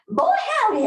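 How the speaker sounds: high, hammed-up Southern "Boy, howdy"; Southern exclamation. Instructor joking to the class in Southern style, playful. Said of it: "as we say in the South".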